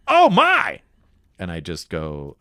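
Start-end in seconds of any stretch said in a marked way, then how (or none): 0.1-0.8 high, loud shocked gasp; gasping surprise. Retold or imitated. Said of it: "you go".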